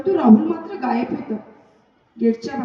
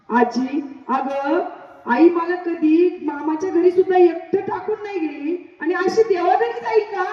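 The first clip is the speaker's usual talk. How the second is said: tearful disbelief; 5 semitones higher, 4 dB louder than usual. Acted. Boy refusing grandmother's news.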